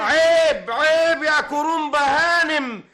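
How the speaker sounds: loud, slow indignant rebuke; indignant protest. Acted. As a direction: rebuke her loudly and slowly.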